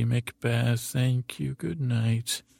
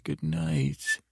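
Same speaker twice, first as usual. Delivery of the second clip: whispered good night; 10 semitones lower than usual. Acted. Whispered sign-off after joke.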